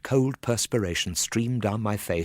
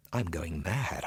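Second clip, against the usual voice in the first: terrified thought; 2 semitones lower, 6 dB quieter, slower than usual. Acted. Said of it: "I thought to myself with terror".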